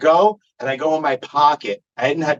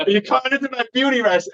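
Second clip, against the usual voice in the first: higher, campy retort; higher, campy "beauty rest" line; sassy high retort; 10 semitones higher than usual. Retold or imitated. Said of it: "I tell him".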